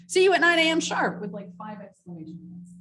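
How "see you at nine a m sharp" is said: mock chirpy email. Reads out a bad email.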